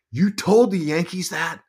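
high, drawn-out incredulous question; retold disbelief. Son questioning mom about the Yankees, high disbelief. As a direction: act out an appalled son.

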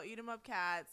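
loud chant; school cheer. Real, not acted. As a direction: shout it out like a proud alum.

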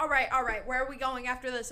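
loud put-on New York accent. Friend who won't drop the joke, loud New York accent. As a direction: play it big, Brooklyn style. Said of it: "could not stop talking in this accent".

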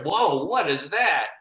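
slow, drawn-out amazed gasp of discovery; a tourist stunned by a giant monument; amazed whoa. Retold or imitated. Imagined tourist seeing giant statue.

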